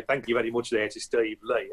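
lightly put-on West Midlands accent; a hint of Black Country in a mock thank-you. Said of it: "he had a very strong West Midlands accent".

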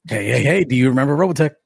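sing-song jingle. Pretend. Jingle-style show tagline.

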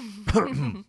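a dry, put-on cough for a drink; mock thirsty cough. Cohost pleads for drinks with a fake cough. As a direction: cough as if parched, begging a drink. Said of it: "that's my thirsty voice".

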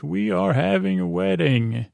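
high, sing-out mock announcement; retold delight in a lifted, swooping voice; happy proclamation. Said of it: "the doctor's so happy".

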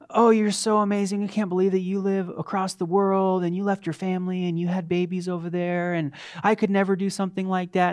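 lightly hammed-up praise of the missionaries; fawning admirers. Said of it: "people would say".

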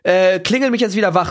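mildly worked-up grumbling rant; mock insulting. Grumbling to girlfriend about the bell ringers, mock insulting. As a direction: retell a running-gag tirade, lightly annoyed. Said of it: "dass ich auch immer die beleidige".

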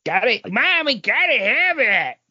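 put-on high, eager kid begging mom; mock child pleading for a toy.

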